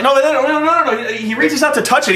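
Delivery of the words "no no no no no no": high insistent crooning; hammed-up fond protest; mock doting no's. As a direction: hush the others, enchanted. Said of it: "he's like".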